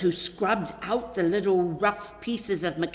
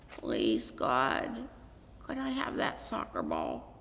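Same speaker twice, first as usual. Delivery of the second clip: much lower and softer, earnest; hushed prayer; 8 semitones lower, 6 dB quieter than usual. A narrator's reading. Boy saying bedtime prayer, low and hushed. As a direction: murmur it at bedside.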